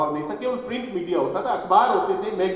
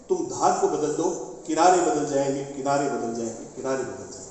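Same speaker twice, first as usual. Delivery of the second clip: poetry recitation. Acted. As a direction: recite it to a hall, letting the last repeats fade away. Recites a poet's couplets to close. (शायरी का पाठ, जोश से उठकर अंत में धीमा होता हुआ)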